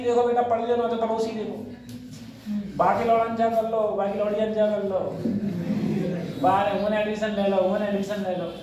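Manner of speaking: lightly imitated parents' nagging on a level, sing-song pitch; nagging family elders. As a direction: recite it like relatives repeating advice. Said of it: "घर वाले कह रहे हैं". (घरवालों की नसीहत की हल्की नकल)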